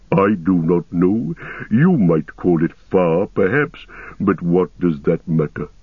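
ancient, unhurried ent voice; Treebeard voice. Acted. Treebeard answering.

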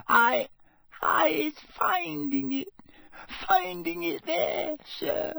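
high, trembling house-elf squeak, hushed; a frightened elf whispering to her master; whispered elf voice. A narrator's reading. Frightened elf whispers to Mr Crouch, high and shaky. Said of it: "she whispered".

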